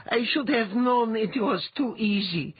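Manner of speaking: high, distraught self-reproach; wailing. A narrator's reading. Letha blames herself for the trick, wailing. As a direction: cry it out, blaming yourself. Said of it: "Letha wailed".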